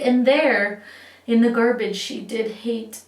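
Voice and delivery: dramatic verse, slowing for the moral; cautionary poem reading. A narrator's reading. Reader warning children about Sarah's fate, mock-cautionary storytelling.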